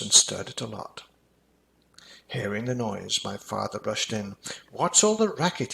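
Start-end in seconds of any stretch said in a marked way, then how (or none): 4.7-5.7 higher, jokey dad voice; amused dad. A narrator's reading. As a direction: ask it with a grin. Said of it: "he said with a grin".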